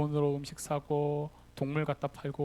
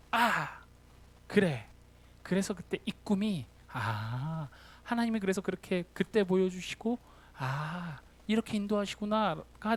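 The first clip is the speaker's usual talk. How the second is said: dawning realization; 3 semitones higher than usual. Retold or imitated. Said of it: "무릎을 탁 치는 거죠".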